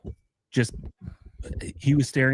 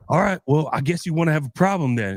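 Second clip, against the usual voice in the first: higher, fast mock challenge; threatening dad; 6 semitones higher, faster than usual. Dad challenges the man in the aisle: mock threat, fast and higher. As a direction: square up, hammed-up and quick. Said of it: "And the guy was like".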